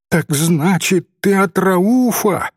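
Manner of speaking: lightly acted excited outburst; excited cry. A narrator's reading. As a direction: cry it out with rising eagerness. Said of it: "вскричала Софичка".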